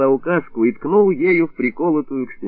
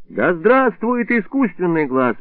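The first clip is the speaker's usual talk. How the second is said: echoing the slogan; 7 semitones higher, slower than usual. A narrator's reading. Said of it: "подхватил я провозглашённый врачом лозунг".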